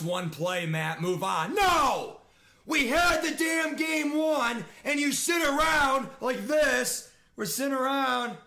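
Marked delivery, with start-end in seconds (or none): 1.5-7.1 scolding shout. Real, not acted. Scolding the team after losing.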